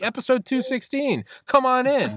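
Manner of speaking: high-pitched comic comeback; mock defiant shout. Podcaster proving himself to doubting assassins, mock defiant. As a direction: fire back way up high.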